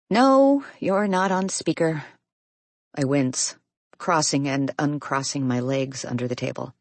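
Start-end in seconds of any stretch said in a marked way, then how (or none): 0.1-2.0 surprised. A narrator's reading. Quick correction.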